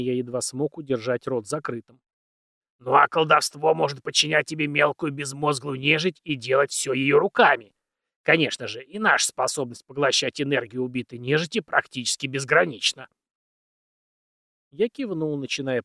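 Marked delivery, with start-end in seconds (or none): 2.8-13.1 put-on very old man.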